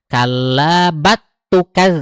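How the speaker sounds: "bat tukaz" with the l merged into t; wrong merged reading. Shown as a demonstration. Teacher shows the forbidden merged reading. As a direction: merge the lam on purpose, slow. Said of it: "Kita nggak baca diidghamkan kan".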